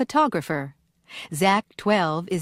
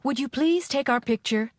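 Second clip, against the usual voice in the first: polite request; 5 semitones higher than usual. Shown as a demonstration. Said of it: "Write P for polite, I for impolite".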